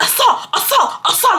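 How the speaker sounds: high, whiny chant of the word; mocking Kaka. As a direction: parrot his repeated cry. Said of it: "Kaka's literally like".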